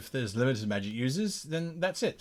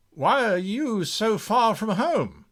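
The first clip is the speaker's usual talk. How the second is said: attempted Persian accent; 3 semitones higher than usual. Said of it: "I don't even know what accent that is".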